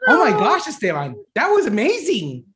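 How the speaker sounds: delighted, rising high; thrilled with the announcement; excited praise. Acted. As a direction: boss amazed at the employee's Spanish.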